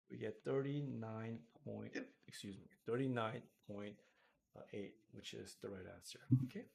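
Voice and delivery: hiccuping between words; hiccups. Real, not acted. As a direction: talk through the hiccups. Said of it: "I don't know why I'm hiccuping so much".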